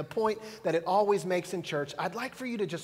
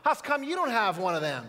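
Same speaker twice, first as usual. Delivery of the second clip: put-on innocent three-year-old blurting it out; child's question; 4 semitones higher than usual. Son asks his mom in the Walmart line, high and innocent. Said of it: "and he says".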